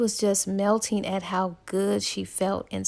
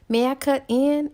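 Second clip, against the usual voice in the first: put-on lightly hinted Southern accent, pitched up; a touch of deep-South accent; 4 semitones higher than usual. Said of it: "in this deep Southern accent".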